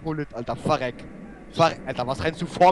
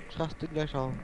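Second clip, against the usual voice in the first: simmering; 5 semitones lower, 11 dB quieter than usual. Real, not acted.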